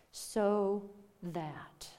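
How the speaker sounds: whispered repeat of "So that" for weight; emphatic whisper. Real, not acted. Preacher whispering "So that" back to the congregation. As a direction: breathe "So that" out, unvoiced.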